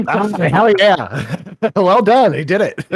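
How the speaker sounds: high, loud delighted laughter; laughing. Real, not acted. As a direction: laugh through the praise. Delighted by the GM's idea.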